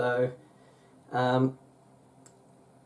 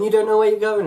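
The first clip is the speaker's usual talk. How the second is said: high, louder imitation of a flustered friend; mock panic; 9 semitones higher, 5 dB louder, faster than usual. Imitating friend freaking out on London trip, mock panicky. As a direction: fret aloud, imitating someone panicking. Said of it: "she was panicking, she was going".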